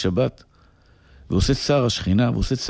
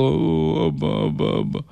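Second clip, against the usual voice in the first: put-on a pitched-up child calling abba, abba through tears; crying little daughter; 4 semitones higher, much slower than usual. Rabbi imitating his weeping daughter calling to her father.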